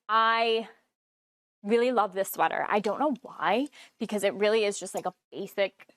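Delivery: talking through hiccups; suppressing hiccups. Real, not acted. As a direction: hold back the hiccups between words. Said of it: "Sorry, I have the hiccups".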